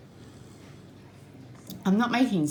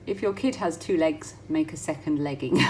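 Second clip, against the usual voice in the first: laughing. Real, not acted. Reading funny pattern, laughing.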